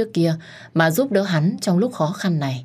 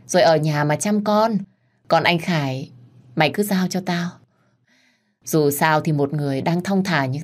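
mocking taunt; 2 semitones higher than usual. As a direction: needle the rival with fake sweetness. Wife taunts rival back. (giọng khiêu khích mỉa mai)

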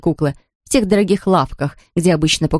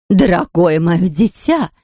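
exclaiming queen; slower than usual. Acted. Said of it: "воскликнула королева".

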